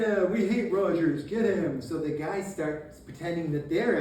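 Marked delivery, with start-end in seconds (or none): 0.0-1.8 loud, higher-pitched crowd cry; mock rallying shout. Soldiers pretend to be Virginians, mock rowdy shout. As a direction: imitate men egging each other on.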